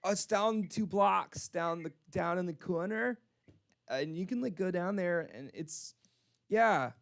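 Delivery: put-on slightly drunk and eager to lead the way; drunk lady. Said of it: "like, really drunk".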